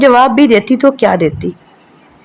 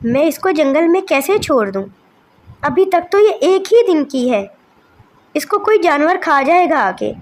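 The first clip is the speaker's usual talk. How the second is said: higher and softer, begging; desperate pleading mother; 4 semitones higher, 6 dB quieter than usual. Acted. Mother begs Kalu not to abandon their daughter. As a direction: plead for your baby's life.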